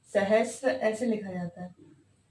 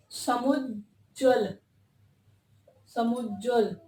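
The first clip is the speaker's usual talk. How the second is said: slow dictation; slower than usual. Shown as a demonstration. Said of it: "इसमें होता है समुज्ज्वल".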